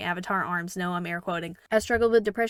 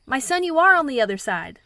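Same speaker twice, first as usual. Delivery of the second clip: loud, higher-pitched hammed-up shout; mock yell back; 5 semitones higher, 7 dB louder than usual. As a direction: holler it across the river, playfully. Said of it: "and yells back".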